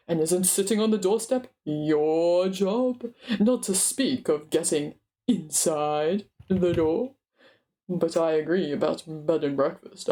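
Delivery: a proud dwarf lord laying down orders; dwarf king demanding his breakfast; Thorin. Acted.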